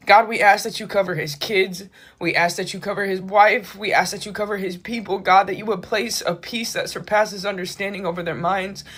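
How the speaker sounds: hushed, pleading petition to God; earnest prayer. Real, not acted. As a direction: pray aloud for a grieving family. Leads a prayer for the family.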